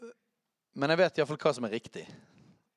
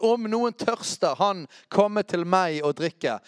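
raised, slow call that settles down; a lighter retelling of Jesus' cry; milder cry; 3 semitones higher, 4 dB louder, slower than usual. Acted. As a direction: lift the first words, then ease off. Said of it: "Jesus sto og ropte ut".

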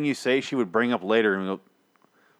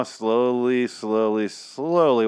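drawn out; much slower than usual. Acted. Draws out the word for effect.

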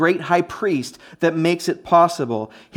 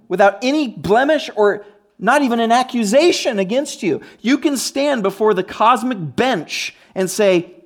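higher, emphatic sermon delivery; impassioned preaching; 5 semitones higher, 4 dB louder than usual. Real, not acted. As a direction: proclaim it to the congregation with building force. Preaches with rising intensity.

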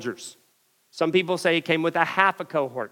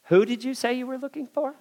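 mild, calm question with a raised pitch; understated, unruffled asking; 5 semitones higher, 4 dB quieter than usual. Acted. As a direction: ask it calmly, a little high. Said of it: "Jesus stands there calmly and says".

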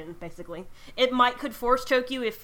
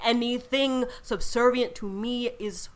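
slow, loud, haughty lich; ancient rasping undead king; 2 semitones higher, 10 dB louder than usual. Acted. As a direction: drag out each word like a tyrant. Lich Lord demands subservience.

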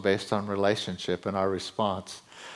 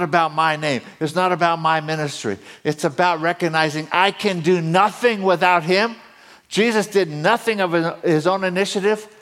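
preacher voice rising steadily in pitch; building preaching; 10 semitones higher, 7 dB louder than usual. Real, not acted. Preacher telling the congregation to depend on him, building emphatic preaching. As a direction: build emphatically toward the big promise.

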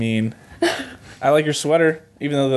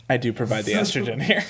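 campy lady voice; 2 semitones lower, 5 dB quieter than usual. Acted. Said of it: "offensive impression of a gay person".

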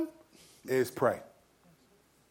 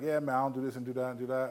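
quick, softer offhand reply; imitated casual friend; 2 semitones lower, 7 dB quieter, faster than usual. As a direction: lightly voice a friend rattling it off. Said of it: "they'll just be like".

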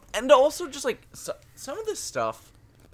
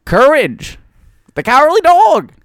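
cartoon announcer; 13 semitones higher, 11 dB louder than usual. Cartoon title call.

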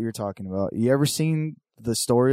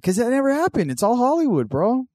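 mock conspiracy voice; 12 semitones higher than usual. Mocking a wrestling-is-real claim.

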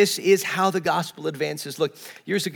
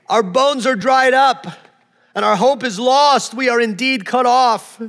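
higher, louder cry of despair; lament of the people; 5 semitones higher, 4 dB louder than usual. Acted. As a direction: cry out as a people who lost hope. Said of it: "Behold, they say".

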